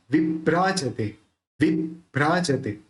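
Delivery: विभ्राजते with the joined भ्र pressed firmly; stress on भ्रा. Shown as a demonstration. Teacher shows the joined consonant in विभ्राजते. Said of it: "थोड़ा जोर लगा के बोलना है".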